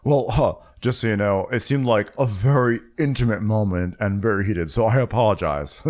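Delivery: fake-sorry, hollow apology; insincere apology. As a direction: apologize without meaning a word. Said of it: "my way of showing that I was not being sincere".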